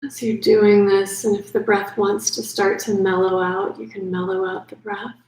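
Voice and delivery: unhurried yoga nidra guidance with long pauses; calm sleep-meditation voice, leaving space between phrases; guided meditation. Acted. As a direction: ease the listener gently toward sleep.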